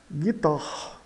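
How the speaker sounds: guitarre closed with the rasped R of "carro"; French final R. Shown as a demonstration. Teacher repeats it for learners, guitarre with French final R. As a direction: end guitarre on a throaty Portuguese double R. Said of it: "de carro. Carro, né?".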